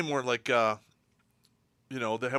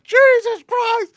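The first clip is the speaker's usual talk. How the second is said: high, loud, slow amazed curse; stunned loud oath; shocked exclamation; 14 dB louder, much slower than usual. Retold or imitated. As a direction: drag it out in disbelief. Watching through binoculars.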